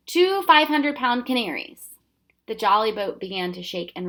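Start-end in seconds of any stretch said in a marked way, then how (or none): 0.1-1.9 excited punchline. Acted. Riddle punchline, loud and high.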